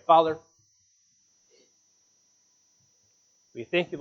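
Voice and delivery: earnest pastor praying aloud to God; closing prayer. Real, not acted. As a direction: lead the congregation in heartfelt prayer.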